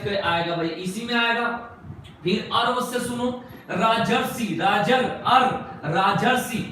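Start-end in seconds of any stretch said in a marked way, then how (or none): 4.6-5.4 राजर, अर with the अर sound pulled out and hit louder; pronunciation demo. Shown as a demonstration. Teacher isolating the अर sound for students, loud and deliberate. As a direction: split राजर्षि apart so अर rings out clearly. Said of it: "राजर्षि बोल रहे हैं तो अर आ रहा है".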